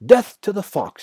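high, loud battle cry; shouted. A narrator's reading. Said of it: "shouted Bunce".

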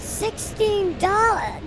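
slow, flat price call; a bored stadium vendor reading the price. Acted. Voicing the beer vendor.

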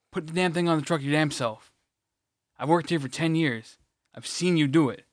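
exasperated griping; super irritated. Retold or imitated. Retold worker griping about helping load a truck, irritated. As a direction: complain in disbelief at a petty request. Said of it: "I get super irritated".

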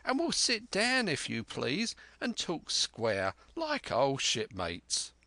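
a hint of wily pirate familiarity; Black Dog. Black Dog settles in for rum with an old shipmate, lightly sly.

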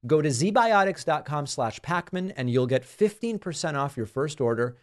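smooth, even podcast ad read; sponsor ad read. Acted. Host pitching pre-drinking probiotic to listeners, ad read. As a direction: read the sponsor copy with measured emphasis.

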